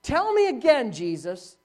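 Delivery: high, loud, disbelieving questions; incredulous questioning. Retold or imitated. Hagin asks Jesus if he heard right, incredulous. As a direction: demand to hear it over, can't believe it. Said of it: "And he said".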